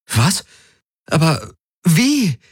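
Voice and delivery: high, incredulous questioning; stunned, drawing out the question; baffled. Acted. Kirai asks Galen how it works, baffled.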